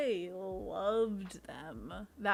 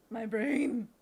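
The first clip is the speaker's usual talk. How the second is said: booming mock-epic cry, rising high; hammed-up mind-blown exclamation; dramatic overwhelmed voice; 4 semitones higher, 10 dB louder, slower than usual. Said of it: "and then you're like".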